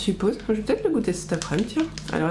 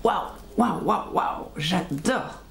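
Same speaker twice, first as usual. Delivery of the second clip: amazed waouh; much slower than usual. Retold or imitated. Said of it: "j'ai fait, mais".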